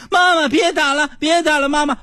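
put-on high pleading child voice; sleep talking. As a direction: beg mom to stop, high. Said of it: "特别正经".

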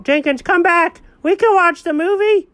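high, hammed-up remorse; melodramatic dog voice. Dog apologizing to the cat, high and dramatic. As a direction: overplay the guilt in a high pet voice.

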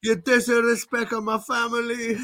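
channel an offended Italian uncle from New York; showing off a New York Italian mobster accent for his co-host. Pretend. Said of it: "Wow, nailed it".

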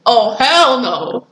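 slow, drawn-out refusal; emphatic refusal. Retold or imitated. Retelling her reaction to being called sweetheart, emphatic refusal. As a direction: stretch it out, appalled.

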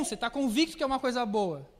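ordinary delivery

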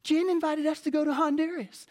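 high-pitched, excited wife impression; put-on high voice imitating his wife; voice for Sarah. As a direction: squeal it like an elated wife. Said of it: "my voice for Sarah".

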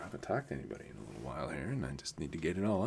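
fast, quiet rush of words; babbling. Real, not acted. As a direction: blurt it all out fast. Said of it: "sorry, I'm babbling here".

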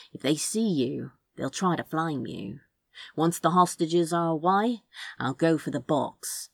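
a hint of a cool, sure rogue making the plan; Crow, confident. Crow assuring Azra he'll distract the council, lightly voiced and calm. Crow's voice in dialogue.

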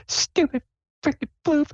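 squeaky, high-pitched grumble; mock anger in a tiny high voice; Sable. Player's character cross with the floof, high squeaky huff. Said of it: "she's like".

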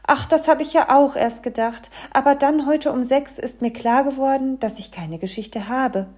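high, loud fairy-tale figure, easing at the end; little fairy tale. A narrator's reading. Fairy tale confides in the dwarf, high voice. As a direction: start high and loud, then settle.

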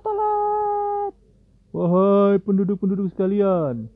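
very high, loud hammed-up announcer call; football presenter style. Town crier announcing Ibrahim's punishment, hammed-up sports-presenter shouting. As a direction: belt it out like a stadium announcer. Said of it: "Cara ngomongnya gitu, kayak presenter bola ya".

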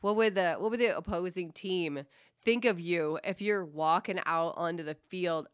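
usual speaking voice

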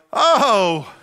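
slow, drawn-out forced thanks; fake gratitude. Guest forcing thanks for pickled beets, mock-polite. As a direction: hide your dislike behind thanks. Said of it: "you're like".

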